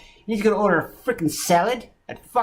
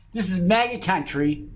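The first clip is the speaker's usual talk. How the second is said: said through a laugh; mocking quote; 2 semitones higher than usual. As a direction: laugh while mimicking the attacker.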